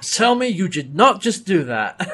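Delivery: mock disbelief. Imitating John after the shooting, disbelieving. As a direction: beg it not to be true.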